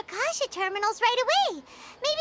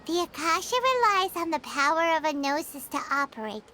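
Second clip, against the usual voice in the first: lower, word-for-word recital; quoting Nahida; 4 semitones lower than usual. Retold or imitated. Paimon repeats Nahida's words for the friend, lower recital. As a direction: recite her words back, lower, like a lesson learned. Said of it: "and Paimon quotes".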